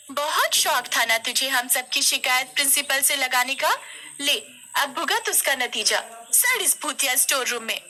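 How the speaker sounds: high, spiteful schoolgirl taunt; gloating bully. A narrator's reading. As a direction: rub in the revenge. Neha taunts locked-in Kosi.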